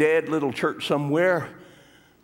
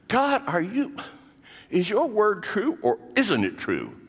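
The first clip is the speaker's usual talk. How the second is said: challenging God; 8 semitones higher than usual. Retold or imitated. Believer challenging God, complaining.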